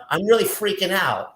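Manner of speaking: high, mock panicked whine; playing someone who is lightly freaking out. Pretend person tells the angels they're panicking, high mock panic. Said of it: "sitting there going like this".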